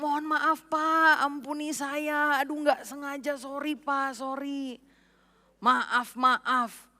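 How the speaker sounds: pleading maid. Retold or imitated. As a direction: beg the boss not to be angry. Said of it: "si Inem bilang". (pembantu memohon maaf dengan lirih)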